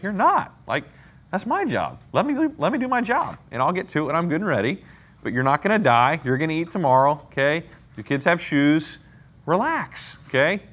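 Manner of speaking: a patient God gently brushing off the worry; God reassuring. Acted. God answering the stressed speaker.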